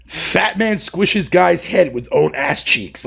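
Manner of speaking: slow, deliberate pretend headline read; mock news headline. Streamer imagines the news story about himself, mock headline read. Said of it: "can you imagine the fucking news headline".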